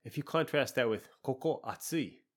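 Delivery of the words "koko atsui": robotic and cold. Shown as a demonstration. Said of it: "it sounds a little bit robotic and cold".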